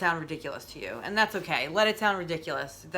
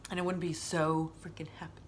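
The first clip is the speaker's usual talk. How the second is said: a breathy whisper, softer, confiding; 5 dB quieter than usual. Real, not acted. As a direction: whisper it like a secret. Whispered aside.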